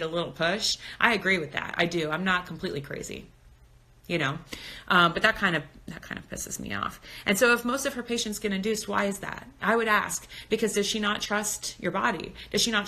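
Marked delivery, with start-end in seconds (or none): 5.9-7.0 hushed curse. Real, not acted. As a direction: whisper the swear word under your breath. Whispered aside about annoying doctor.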